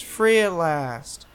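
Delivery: drawn out, slurred and slow; slow slurred imitation. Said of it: "he's just like".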